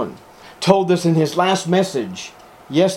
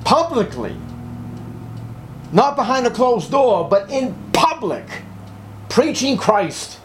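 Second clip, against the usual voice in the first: imitating Northern Irish accent; 10 semitones higher than usual. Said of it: "with his Northern Irish accent".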